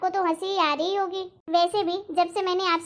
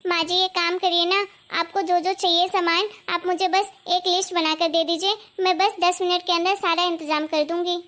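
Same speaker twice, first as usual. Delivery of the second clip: सास को आदर से, धीमे उतार-चढ़ाव में सफाई देती बहू; नरमी से भरोसा दिलाओ; विनम्र सफाई. Acted. (विनम्र, आज्ञाकारी बहू का लहजा)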